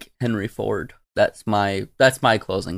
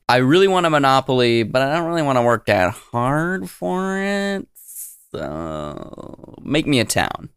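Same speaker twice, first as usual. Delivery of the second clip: lazy tycoon. Retold or imitated. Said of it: "It's like".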